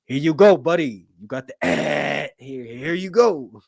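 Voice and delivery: loud chummy doctor voice, slowing at the end; mock doctor. Doctor breezily dismissing patient, loud chummy voice. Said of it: "the doctor goes".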